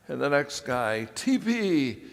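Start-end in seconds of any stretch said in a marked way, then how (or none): 1.2-2.0 high-pitched, loud call; yelled out. Retold or imitated. Next guy naming a staff member, high loud yell. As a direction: shout out the nickname. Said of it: "somebody would yell out".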